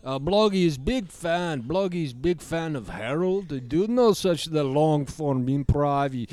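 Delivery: gruff Eastern European puppet; Bloggy voice. Acted. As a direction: demand a cigarette in broken English. Bloggy voice continues.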